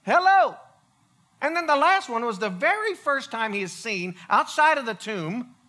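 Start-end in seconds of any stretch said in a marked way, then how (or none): 0.0-0.6 playful, higher and louder hello; playful surprise entrance. Pretend. Walking through a locked door to greet friends, playful. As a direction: pop in cheerfully and announce yourself. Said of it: "just show up and say".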